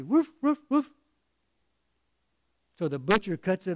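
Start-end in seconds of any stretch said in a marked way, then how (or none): 0.0-0.9 high imitation woofs in a run; excited mock dog woofs; emphatic dog barking. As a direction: bark three times like an eager dog. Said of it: "And the dog just wags his tail and really".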